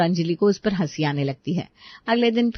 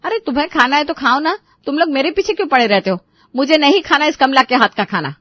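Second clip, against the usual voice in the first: higher-pitched irritated retort; annoyed refusal; 5 semitones higher than usual. Acted. Asha snaps at family urging her to eat, irritated. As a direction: push back, fed up with the nagging.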